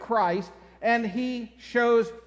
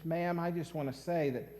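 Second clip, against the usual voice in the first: admiring stranger; 6 semitones lower, 5 dB quieter than usual. Retold or imitated. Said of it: "he says".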